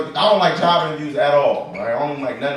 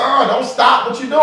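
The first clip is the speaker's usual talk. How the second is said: put-on high shouted girlfriend; mock girlfriend yelling, higher; 9 semitones higher, 4 dB louder than usual. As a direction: shriek like the upset girlfriend. Girlfriend voiced complaining.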